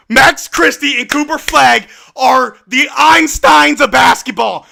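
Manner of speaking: slow, emphatic, loud proclamation; loud hype. Real, not acted. Fan praising two players after a miracle play, loudly hyped. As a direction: proclaim their genius to the whole room.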